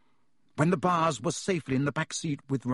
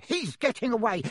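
roared; 8 semitones higher than usual. Acted. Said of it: "roared Uncle Vernon".

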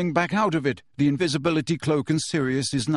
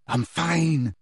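said shortly; 3 semitones higher than usual. A narrator's reading. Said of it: "he said shortly".

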